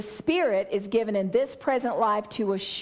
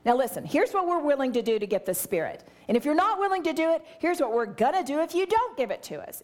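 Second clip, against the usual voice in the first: pushy, rising higher and faster into a threat; mock bargaining with God; 3 semitones higher, faster than usual. Believers bargaining with God for the Spirit, mock pushy haggling. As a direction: haggle like a cocky negotiator, then push harder. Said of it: "We didn't come to a meeting with God and say".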